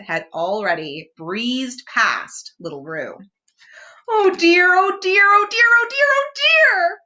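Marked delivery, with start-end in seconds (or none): 4.1-7.0 high, loud rising panic; panicking more with each oh dear; Piglet crying out. A narrator's reading. Piglet swooping in the gusty air, high and panicked. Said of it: "cried Piglet".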